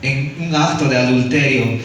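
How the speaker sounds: lightly voiced scornful accusers, half-hearted yell; retelling the Pharisees' challenge, mildly mock shouted; mild mock accusing shout. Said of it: "los fariseos le gritaron".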